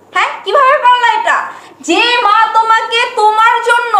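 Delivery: indignant rebuke. Acted. Wife rebukes husband for insulting mother.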